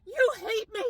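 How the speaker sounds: hammed-up cartoon wail of betrayal; Homer Simpson scream. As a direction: belt a cartoon dad's anguished howl, then whine. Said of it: "in his best Homer Simpson scream".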